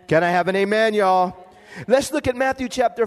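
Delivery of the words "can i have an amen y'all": call for amen. Real, not acted. Preacher calls for congregation response.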